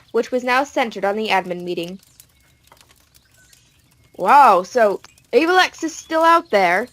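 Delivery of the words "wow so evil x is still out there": character voice. Acted. Character voice in read story.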